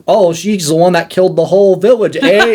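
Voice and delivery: high-pitched hammy British guard; bad British accent. Mocking two guards in her cell, bad British accent. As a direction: overdo a terrible British accent. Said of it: "it's such a bad British accent".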